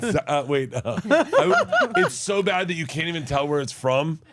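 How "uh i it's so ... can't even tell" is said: confusing European accent. Shown as a demonstration. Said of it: "a very confusing European guy".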